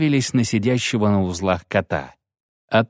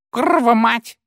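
much higher grinding curse; angry curse; 4 dB louder than usual. Acted. Field marshal Dub curses the mob, grinding. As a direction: spit out the oath. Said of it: "скрижетнул фельдмаршал Дуб".

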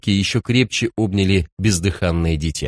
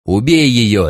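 louder, sharp command; a barked kill order, louder; 3 semitones higher, 5 dB louder, slower than usual. A narrator's reading. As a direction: bark it into his ear. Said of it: "рявкнул контролёр".

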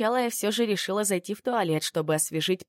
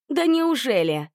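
cry out; 6 semitones higher, 4 dB louder than usual. Acted. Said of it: "вскрикнула я".

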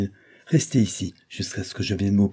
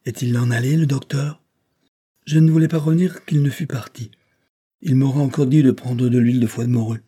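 put-on higher-pitched little boy voice; young William, plaintive; 5 semitones higher, 6 dB louder than usual. Sick son asks his father if the doctor has gone, childlike. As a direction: voice a child complaining, raised in pitch and a bit louder.

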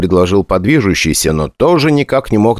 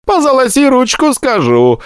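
prophetic trance voice. A narrator's reading. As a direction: intone it like a stage seer. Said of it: "хорошо поставленный ... голос прорицательницы".

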